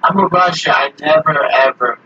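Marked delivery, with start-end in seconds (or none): 0.0-0.8 put-on Russian accent. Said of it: "Sorry for my dumbass accent".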